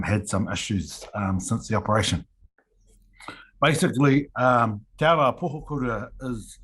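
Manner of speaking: slight post-surgery lisp; speaking through a mild lisp. Real, not acted. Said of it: "excuse my lisp".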